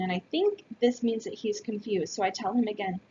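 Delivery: ordinary delivery, nothing marked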